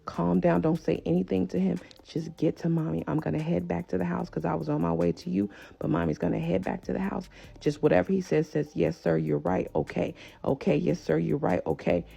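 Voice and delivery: hushed, even coaching to keep someone calm; calm reassurance. Retold or imitated. Mother quietly calming her scared child on the phone, reassuring.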